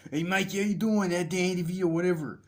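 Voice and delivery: high, loud mock DeVito voice; Danny DeVito impression. Vlogger imitates Danny DeVito greeting Mikey, mock high voice. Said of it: "imagine that".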